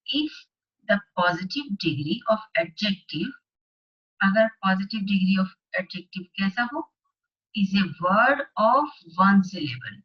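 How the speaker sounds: slow, deliberate classroom dictation; slow worksheet read-aloud. Acted. Teacher reading the worksheet aloud to class eight students, slow and deliberate. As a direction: read each phrase out slowly for the class. Reads the grammar rule.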